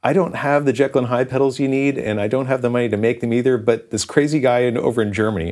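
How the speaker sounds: high, hesitant opening easing down; retold sheepish pitch, embarrassed to be asking; cringing. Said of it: "I'm cringing the whole time".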